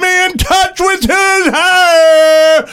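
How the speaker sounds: slow, high announcer voice stuck on a syllable. Acted. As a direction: stammer the word out in announcer style. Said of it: "in his very best announcer voice".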